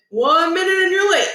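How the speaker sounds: high loud coach warning; coach shouting. Acted. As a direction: call it out across the gym. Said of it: "Coach O shouted".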